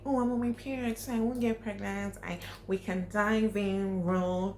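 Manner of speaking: mock a careless excuse; careless girl quote. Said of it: "So don't say".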